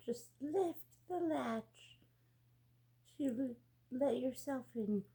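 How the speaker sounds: barely able to call out from bed; weak old grandma. Acted. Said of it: "too weak to get up".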